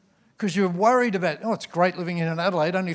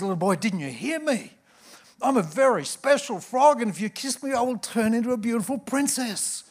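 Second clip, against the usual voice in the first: higher, pushier agitated frog; a frog losing patience, pitched up; 5 semitones higher than usual. Acted. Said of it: "a little more agitated now".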